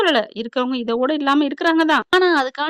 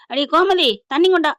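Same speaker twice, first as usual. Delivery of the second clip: loud call across the house, higher; 5 semitones higher, 5 dB louder than usual. Retold or imitated. Husband calls wife for water, loud call. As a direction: shout for the wife to bring water.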